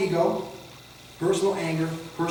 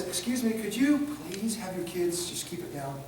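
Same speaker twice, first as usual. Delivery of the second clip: softer, slower, polite request; 6 dB quieter, slower than usual. Retold or imitated. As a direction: ask gently as the clinic worker. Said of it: "the lady that works at behavioral health says".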